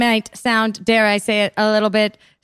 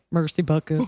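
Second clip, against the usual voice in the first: put-on French accent; 8 semitones lower, 4 dB quieter than usual. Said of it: "Your French accent".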